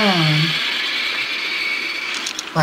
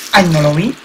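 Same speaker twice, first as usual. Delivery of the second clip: frustrated yelp; 6 dB louder than usual. Real, not acted. Gamer fails a jump.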